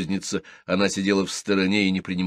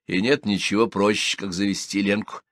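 plain reading voice

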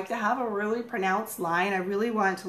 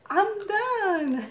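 laughing; 12 semitones higher than usual. Real, not acted. Finishing makeup, laughs.

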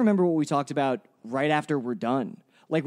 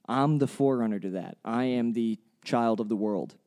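cult leader; 6 semitones lower than usual. Pretend. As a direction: intone it like a messianic cult leader. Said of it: "You sound like a fucking cult leader".

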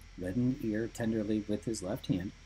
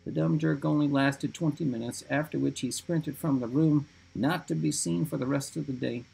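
high shaky voice; 4 semitones higher than usual. Acted. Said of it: "reading in his high, shaky voice".

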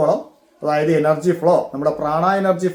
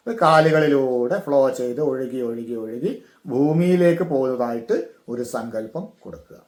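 guided meditation; 2 semitones lower than usual. Shown as a demonstration. Teacher guiding breath down the legs into earth, guided meditation.

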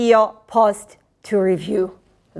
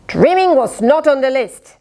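mild mock roar; 4 semitones higher than usual. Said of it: "they roared".

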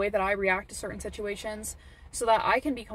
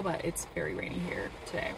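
whispered aside; 6 dB quieter than usual. Real, not acted. Aside about the rain.

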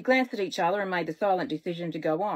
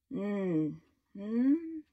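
drowsy hum from sleep; groggy closed-mouth mumble; sleepy mumble. A narrator's reading. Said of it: "I mumbled at being dragged".

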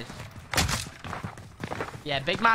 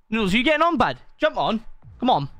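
calling out; 2 semitones higher, 4 dB louder, faster than usual. Real, not acted. Calling friend to join game.

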